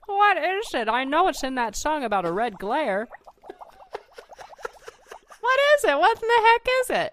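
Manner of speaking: high, eager pleading questions; mock excited. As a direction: beg to know, playfully.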